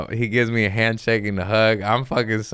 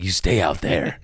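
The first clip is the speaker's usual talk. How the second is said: smug gatekeeping; 2 semitones higher than usual. Retold or imitated. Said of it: "You're like".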